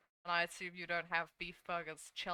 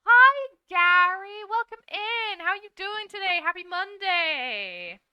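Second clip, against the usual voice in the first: loud, high welcome to Gary; excited greeting; 10 semitones higher, 15 dB louder, slower than usual. Real, not acted. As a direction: call out a big hello to a viewer. Greeting a chat viewer.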